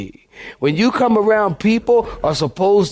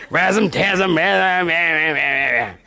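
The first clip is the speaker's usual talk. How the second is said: mock gibberish; slower than usual. Repeating nonsense, drawn out.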